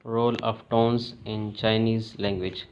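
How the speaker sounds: slow, deliberate heading; slow lesson heading; slow title read. Shown as a demonstration. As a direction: announce the topic slowly. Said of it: "section title read slowly".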